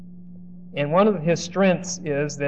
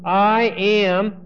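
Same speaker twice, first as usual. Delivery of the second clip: lightly voiced Joseph; 2 semitones higher, much slower than usual. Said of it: "what he says objectively is".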